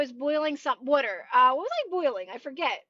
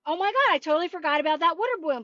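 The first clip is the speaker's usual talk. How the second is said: fast, flustered realization; mock-panicked fast outburst; 2 semitones higher, faster than usual. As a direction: rush it out in a panic. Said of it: "And I'm like".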